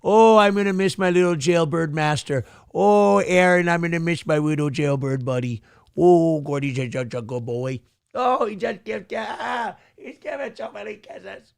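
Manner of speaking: lightly voiced doting dog; a hint of a sappy pet talking to his owner; voicing the dog. Dog Gordy telling his owner he'll miss him, lightly voiced. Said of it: "he's saying".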